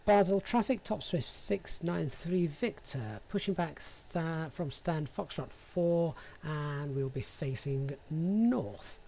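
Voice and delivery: slow, deliberate radio transmission; pilot radio call. Acted. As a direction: read it like an ATC call.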